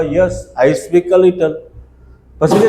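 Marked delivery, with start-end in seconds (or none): 0.0-1.5 very slow, every word laid out for the class; slow model sentence. Shown as a demonstration. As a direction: say it slowly like a teacher modelling English. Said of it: "આપણે શું?".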